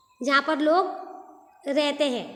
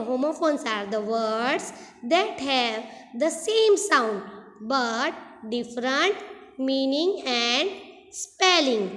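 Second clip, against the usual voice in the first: very slow, word by word, like dictating to students; slow dictation; much slower than usual. Shown as a demonstration. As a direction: spell it out slowly so the class can copy it. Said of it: "तो हम वापस से कैसे बोलेंगे?".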